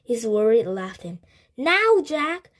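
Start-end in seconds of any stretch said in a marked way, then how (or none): 1.6-2.5 high, loud call to a friend; urgent cry. A narrator's reading. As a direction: cry out to make him act. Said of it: "cried Annie".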